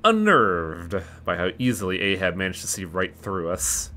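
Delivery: measured, slightly softened read-aloud voice; story narration. A narrator's reading. Reading the sinners' story aloud to viewers, story narration. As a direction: narrate the story text evenly.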